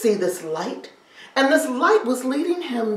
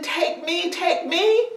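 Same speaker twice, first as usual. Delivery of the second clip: pleading cry; 7 semitones higher, 6 dB louder, slower than usual. Acted. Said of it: "yelling, screaming".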